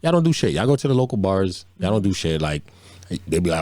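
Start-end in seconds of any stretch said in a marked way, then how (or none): 0.0-2.4 much higher-pitched, indignant mock protest; pitched-up comeback to the critics; animated retort. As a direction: throw it back at them, high and emphatic. Acted retort to his coworkers.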